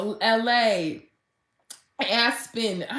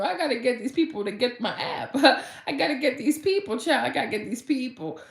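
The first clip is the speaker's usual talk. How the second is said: determined excitement; 4 semitones higher than usual. Retold or imitated. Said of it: "I was like".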